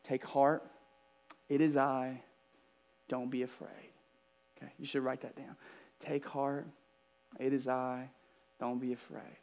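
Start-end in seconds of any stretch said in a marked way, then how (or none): 0.0-3.9 soft, unhurried comfort with spaced phrases; gentle reassurance. Acted. Jesus speaks to frightened disciples, gentle reassurance. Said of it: "he says this really gentle thing to them". 6.0-9.4 soft, unhurried comfort with spaced phrases; gentle reassurance. Acted. Jesus speaks to frightened disciples, gentle reassurance. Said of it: "he says this really gentle thing to them".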